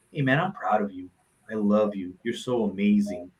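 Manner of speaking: low, gentle words of affection; tender reassurance. Retold or imitated. Telling a hurting little boy he is loved, gently reassuring. Voicing the love men need.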